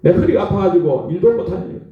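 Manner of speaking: acted-out plea to God; desperate prayer. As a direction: imitate a despairing worshipper praying. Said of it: "그렇게 막 기도를 했어요". (절박하게 하소연하는 기도 흉내)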